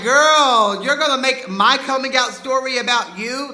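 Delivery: stunned, indignant shout at his mother; exasperated outburst. Retold or imitated. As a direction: blast it out in disbelief. Outraged at mom's self-centred reply.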